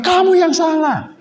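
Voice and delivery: high, slow scolding; the teacher scolds him, slow and sharp; stern teacher rebuke. Retold or imitated. Guru scolds the preacher, stern and slow. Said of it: "Lantas gimana?".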